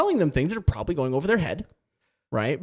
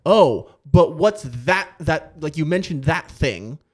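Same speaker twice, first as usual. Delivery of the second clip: put-on slow, louder kid follow-up; mock child wanting more; curious child; 2 semitones higher, 5 dB louder, slower than usual. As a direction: draw out the kid's question. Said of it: "But if they go".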